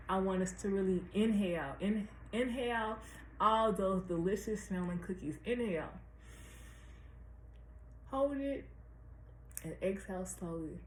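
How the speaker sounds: guided breathing. Acted. Leads a breathing exercise.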